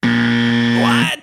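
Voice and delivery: hammed-up loud disbelief; loud mock-shocked what. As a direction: blurt it out, mock outraged. Shocked by wrong answer.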